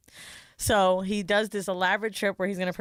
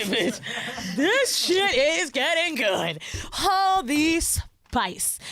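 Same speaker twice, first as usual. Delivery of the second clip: laughing, slow and higher, relishing it; laughing excitedly; 4 semitones higher, much slower than usual. Real, not acted. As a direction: savor the gossip through laughter. Excited about juicy reality show.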